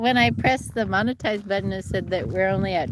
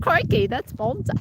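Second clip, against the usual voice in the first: put-on light Tasmanian accent, playful. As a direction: Tasmanian accent with an Aussie twang. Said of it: "that did sound, sound Tasmanian".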